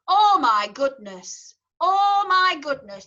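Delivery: slow, broad Yorkshire "Oh my goodness" with a flat O; Yorkshire accent. Shown as a demonstration. Choir teacher showing singers her Yorkshire O in broad Yorkshire. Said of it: "talk in my native tongue and say".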